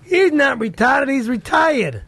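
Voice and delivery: slow, attempted Boston accent. Shown as a demonstration. Correcting his friend in slow Boston accent. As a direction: stretch the vowels Boston style. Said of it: "do a Boston accent again".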